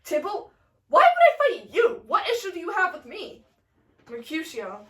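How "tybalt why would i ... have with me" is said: high, swooping mock indignation; hammed-up offended questioning; Tybalt's indignant retort. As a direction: protest with a raised, incredulous pitch. Tybalt answers the challenge.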